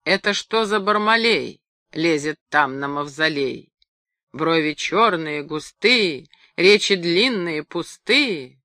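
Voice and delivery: measured rhyme recital; solemn singsong report of a verse; reporting into space. A narrator's reading. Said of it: "отрапортовала в пространство".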